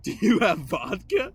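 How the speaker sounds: slow, loud, put-on girl's voice; imitating the girl. Teen storyteller quoting the older girl asking for vodka, mock eager. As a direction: mimic her eager ask for vodka. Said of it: "And she goes".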